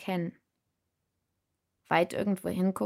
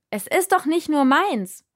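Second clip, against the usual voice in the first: much higher, louder protest; shouted; 9 semitones higher, 5 dB louder than usual. A narrator's reading. Insisting to the spirit over the noise, shouting. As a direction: call it out firmly. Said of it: "rief ich".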